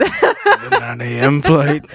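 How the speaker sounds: drawn-out, badly faked Irish accent; mock an Irish cabbie's accent, very slowly. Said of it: "Really bad Irish accent".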